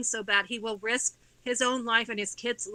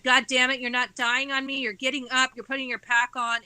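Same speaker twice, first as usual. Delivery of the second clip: louder, forceful retold command to get up; retold yell at dad; 5 dB louder than usual. Daughter yells at her exhausted dad to keep walking, loud and forceful. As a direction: bark the order like a fed-up daughter.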